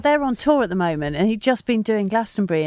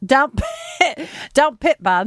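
playful, higher-pitched go at Yorkshire; Yorkshire accent; 4 semitones higher, slower than usual. Pretend. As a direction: echo the mock Yorkshire accent. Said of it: "I was doing Yorkshire accent".

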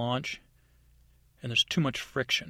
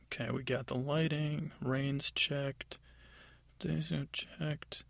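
whisper; 2 semitones higher, 4 dB quieter, slower than usual. Acted. Elf going down checklist.

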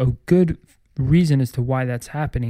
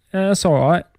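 slightly higher mock British accent; 4 semitones higher than usual. Shown as a demonstration. Host shows his one phrase in British accent. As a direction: lightly put on a British accent. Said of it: "whenever I try to demonstrate my British accent".

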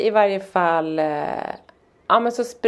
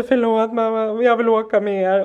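put-on mildly pleading, higher-pitched child; imitated sad child; 4 semitones higher than usual. Son running after mum to apologise, imitated sadness. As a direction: lightly mimic a sorry little boy. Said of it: "Och var så här ledsen och grå".

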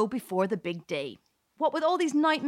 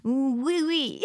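bad French accent; 3 semitones higher than usual. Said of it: "you can just do a really bad French accent".

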